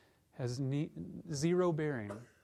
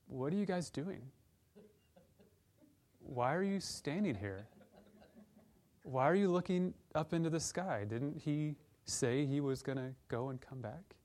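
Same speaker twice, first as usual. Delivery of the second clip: angels gently teasing the gaping disciples; mock sarcastic angels. Angels to stunned disciples, mild mock sarcasm. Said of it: "I read them kind of sarcastically".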